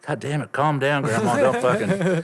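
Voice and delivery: high-pitched exasperated pleading; mock exasperation. Grandson to out-of-breath grandma, comically alarmed and exasperated. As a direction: push the pitch up, urging her to settle.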